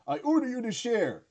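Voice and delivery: high mock character voice; lightly voiced, lifted pitch, bossy order; quoting a character. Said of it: "love the line of".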